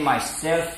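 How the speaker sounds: myself with stress on self; myself, weight on the second syllable. Shown as a demonstration. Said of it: "you put accent on self rather than on my".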